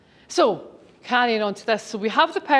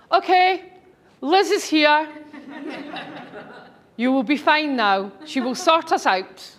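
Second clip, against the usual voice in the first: excited greeting; 6 semitones higher than usual. Retold or imitated. Man greeting her in boardroom.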